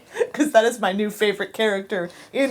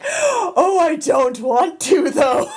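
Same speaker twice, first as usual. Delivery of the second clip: put-on higher, reluctant Scottish accent; 6 semitones higher, 3 dB louder, much slower than usual. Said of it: "my boss made me do my Scottish accent".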